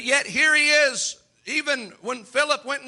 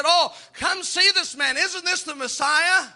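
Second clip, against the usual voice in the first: slow, eager, lifted pleading; excited Philip; 5 semitones higher, slower than usual. Retold or imitated. Philip urging Nathanael, eager and slow. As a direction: urge your friend to come and look. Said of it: "Philip said".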